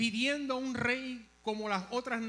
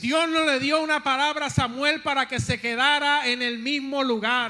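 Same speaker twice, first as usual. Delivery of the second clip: insistent preaching, slightly raised voice; 4 semitones higher, 9 dB louder than usual. Real, not acted. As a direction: drive the point home to the congregation.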